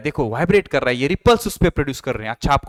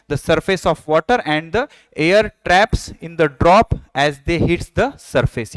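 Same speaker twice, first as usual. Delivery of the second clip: very slow, word by word dictation; slow textbook reading; much slower than usual. Acted. Teacher dictating a textbook line to the class, slow reading. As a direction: read each English word out slowly for students to copy. Reads textbook definition slowly.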